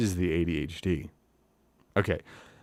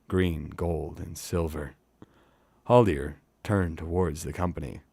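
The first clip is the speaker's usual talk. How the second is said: measured storyteller's reading with pauses; story narration; 4 dB louder, slower than usual. A narrator's reading. Reading a fantasy novel to live listeners, measured narration. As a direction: read it like an audiobook.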